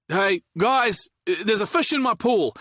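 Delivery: high, loud delighted call; excited shout. Acted. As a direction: shout it out, surprised and thrilled. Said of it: "Liam shouted".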